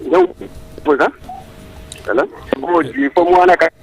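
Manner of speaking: breaking up on a bad phone line; choppy, cutting-out call audio; scrambled voice. Real, not acted. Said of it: "your line is, uh, cutting".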